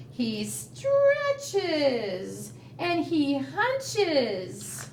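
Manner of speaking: lively rhyming storybook voice; reading to a toddler. Acted. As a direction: read it bouncy for little kids. Reads rhyming picture book.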